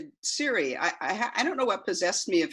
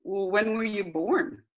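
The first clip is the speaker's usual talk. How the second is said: repeating to voice assistant; 3 semitones higher than usual. Acted. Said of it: "this is the transcript of that conversation".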